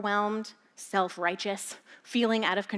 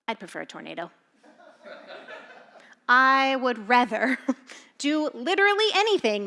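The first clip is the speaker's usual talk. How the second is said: laughing; 6 dB louder than usual. Retold or imitated. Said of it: "And we are like".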